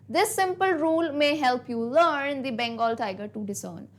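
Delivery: very slow, measured reading of verse; poem recitation. Acted. Teacher reciting the stanza slowly for students to find rhymes. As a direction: recite each line slowly so they hear the rhymes.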